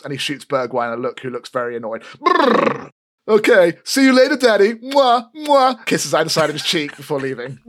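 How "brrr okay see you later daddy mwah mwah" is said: high, loud sugary voice; syrupy high goodbye. Acted. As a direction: blow kisses, teasing. Elfgeet kisses father goodbye.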